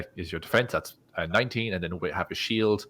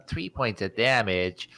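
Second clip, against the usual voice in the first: unimpressed; slower than usual. Retold or imitated. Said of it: "you might think".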